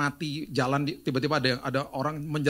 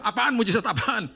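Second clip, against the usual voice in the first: high, surprised disbelief; shocked question; 9 semitones higher, 4 dB louder than usual. Retold or imitated. Pastor hearing of the miracle, high and surprised. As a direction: ask it in sudden shock.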